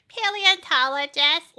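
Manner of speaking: put-on high, loud proud little-kid reply; proud kid answer. Child telling adults her dream job, high and loud. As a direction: announce your dream job like a beaming child. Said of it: "I would be like".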